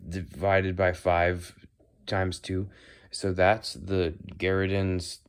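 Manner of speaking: lightly voiced halting math teacher; a hint of a droning lecturer, full of ums; mock teacher. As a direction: stumble slowly through a made-up formula, stressing key words. Mocks teacher reciting made-up formula.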